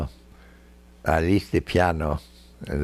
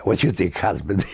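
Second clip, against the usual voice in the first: teasing question; faster than usual. Retold or imitated. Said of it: "she said".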